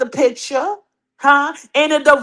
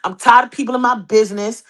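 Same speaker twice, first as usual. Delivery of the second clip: pretend Pat voice; 2 semitones lower than usual. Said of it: "grow a pair ... and say".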